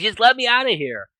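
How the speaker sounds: high, loud acted plea; retold frustrated outburst; exasperated demand. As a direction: demand to be let go, fed up. Captive demands to be released.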